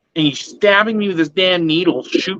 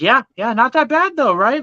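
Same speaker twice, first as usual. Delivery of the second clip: sarcastic; 8 semitones higher than usual. Retold or imitated. Mocking the nurse's words back.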